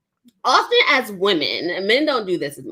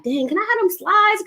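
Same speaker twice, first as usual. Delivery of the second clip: eager plea; 11 semitones higher than usual. Retold or imitated. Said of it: "you're like".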